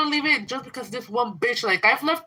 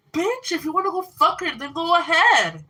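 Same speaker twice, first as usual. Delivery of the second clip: angry; 7 semitones higher than usual. Real, not acted. Angry rant at former friend.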